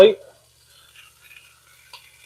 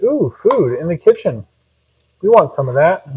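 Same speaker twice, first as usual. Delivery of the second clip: voicing the dogs; 5 semitones higher, 5 dB louder than usual. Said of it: "my dogs are super excited, Like".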